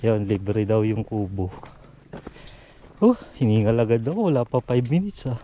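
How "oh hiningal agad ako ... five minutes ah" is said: winded from the climb; panting between words while climbing; out of breath. Real, not acted. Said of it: "naririnig siguro yung hinga ko sa video".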